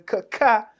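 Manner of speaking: mock choking sound. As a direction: cough it out like he's choking. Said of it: "What does he say as he's choking".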